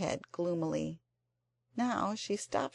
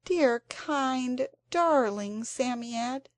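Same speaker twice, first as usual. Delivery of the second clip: breathless; 6 semitones higher, 3 dB louder, much slower than usual. A narrator's reading. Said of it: "she said breathlessly".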